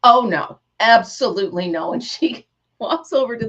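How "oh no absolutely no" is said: firm teacher. Retold or imitated. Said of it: "She goes".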